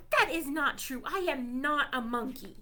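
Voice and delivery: ordinary delivery, nothing marked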